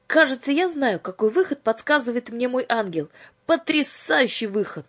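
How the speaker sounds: excited idea. Acted. Yulka bursts with an idea.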